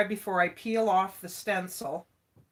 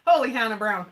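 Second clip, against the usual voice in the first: quoted catchphrase; 7 dB louder, faster than usual. Retold or imitated. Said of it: "'Cause I always say that".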